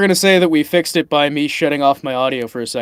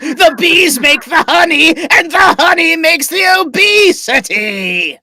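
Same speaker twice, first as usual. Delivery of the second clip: booming frost giant; 12 semitones higher than usual. Acted. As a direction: declare it like a mad giant. Villain plans to conquer surface world.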